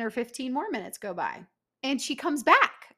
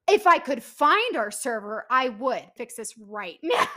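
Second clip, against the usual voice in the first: retold angry retort; 7 dB louder than usual. Angry retort to unhelpful server.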